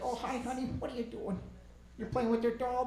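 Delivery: put-on high, softened talk to a small child; lightly hammed-up motherly cooing; mock sweetness. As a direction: coo at a little kid. Grandmother cooing to her little daughter.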